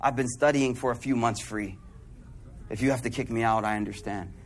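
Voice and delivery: quiet, hesitant owning up; guilty confession. Retold or imitated. Student confessing to the sheikh, quiet and guilty. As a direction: confess it softly, head down. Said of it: "guilty conscience".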